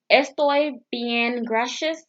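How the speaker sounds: slow, careful Spanish "Estoy bien, gracias"; Spanish phrase. Shown as a demonstration. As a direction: sound out "Estoy bien, gracias" slowly as a learner. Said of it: "That's Spanish".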